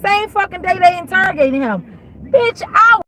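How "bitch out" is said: angry outburst. Retold or imitated. Outburst recalling the snitching.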